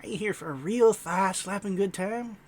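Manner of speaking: lightly voiced howdy-saying stage comic; comedy showman. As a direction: drum up the crowd, a touch hammy. Comedian character introduces his act.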